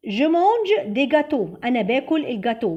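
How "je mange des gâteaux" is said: French said very slowly and deliberately; slow model sentence. Shown as a demonstration. Teacher modelling a French example for students, slowly. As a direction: read it slowly so learners can follow. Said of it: "بصوا ده جمع فخدنا دي".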